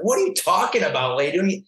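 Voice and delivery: mock-indignant protest at a careless nurse; retold anger. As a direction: replay the outburst, a touch exasperated. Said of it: "I got, like, mad".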